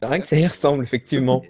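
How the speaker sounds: talking with food in the mouth; chewing while talking. Real, not acted. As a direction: speak around a bite of food. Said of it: "si vous m'entendez manger". (en mâchant, la bouche pleine)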